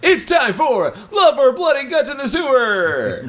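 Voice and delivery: high, loud, slow title call; game show announcer. Pretend. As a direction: belt the show name like a host.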